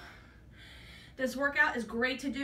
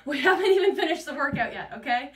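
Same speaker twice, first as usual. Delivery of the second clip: laughing; 6 dB louder than usual. Real, not acted. Laughs about sweating mid-workout.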